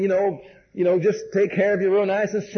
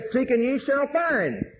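slow, measured words of Jesus; Jesus patiently reminding the seeker of his promise, slow and deliberate; Jesus answering; 5 semitones higher, much slower than usual. Retold or imitated.

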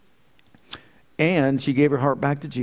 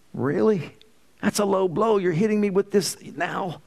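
protesting surprise; 6 semitones higher than usual. Retold or imitated. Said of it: "And he said".

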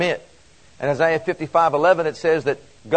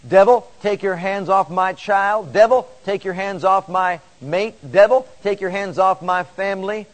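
firm, raised command at the devil; commanding demand; 3 semitones higher than usual. Shown as a demonstration. Preacher showing the church how to command the devil, firm and raised. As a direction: order the devil off, with authority. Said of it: "That's a demand".

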